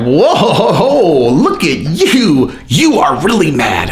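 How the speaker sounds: amused, slow patronizing whoa with a laugh; laughing condescension. Pretend. Holding a raging partner's wrists, laughing condescension. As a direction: laugh them off while holding their wrists. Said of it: "and you're like".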